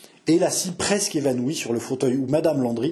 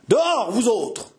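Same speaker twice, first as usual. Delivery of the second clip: slow, higher, louder cutting order; cold menace with a bite; calm and biting; 8 semitones higher, 3 dB louder, slower than usual. A narrator's reading. Chevalier orders the servants out, slow, calm and biting. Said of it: "de sa voix calme et mordante".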